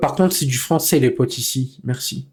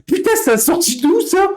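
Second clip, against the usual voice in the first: helpless laughter. Real, not acted. Streamer cracks up at chat.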